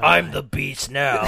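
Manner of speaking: spooky voice. Pretend. Spooky Sandlot line.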